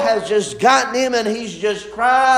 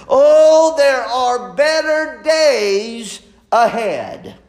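preaching climax; slower than usual. Acted.

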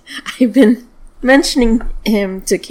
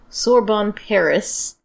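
Sorbonne, Paris in American accent; general american; slower than usual. Real, not acted. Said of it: "Excuse my American accent".

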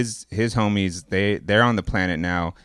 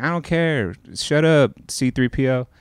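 Han Solo; 5 semitones higher than usual. Retold or imitated. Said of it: "he's like".

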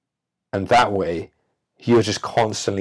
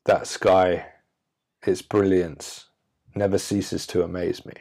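concise, poetic line. Shown as a demonstration. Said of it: "I could say this".

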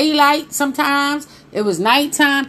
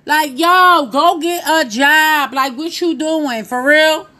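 higher, exasperated appeal; fed-up, pitched-up reproach; mock scolding; 5 semitones higher, 4 dB louder, slower than usual. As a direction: tell them off in disbelief.

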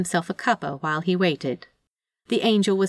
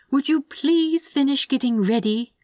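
higher, mildly impatient request; exasperated plea; 7 semitones higher than usual. Acted. Angel hurrying the hiding demon, exasperated. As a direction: plead with strained patience.

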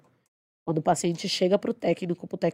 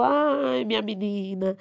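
put-on higher, slow tender old woman; tender farewell; 4 semitones higher, slower than usual. Dying patient hugging Kate and saying goodbye, tender and slow. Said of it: "e falou".

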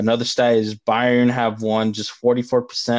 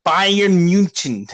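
German-accented, slow Bayern München; slow, lightly German accent on Bayern München; 5 semitones higher, 3 dB louder, much slower than usual. Shown as a demonstration. Explaining how Germans say it, in a light German accent. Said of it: "trying to say it in German".

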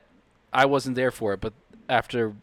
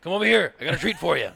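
higher, leering cigar-chomping creep; cigar character voice; 4 semitones higher, 3 dB louder, faster than usual. Acted. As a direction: lure him over like a sleazy guy with a cigar. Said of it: "I'm gonna do mine again".

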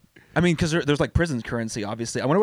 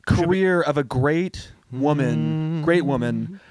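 mock solemn eulogy; slower than usual. Mock eulogy for Ghislaine Maxwell.

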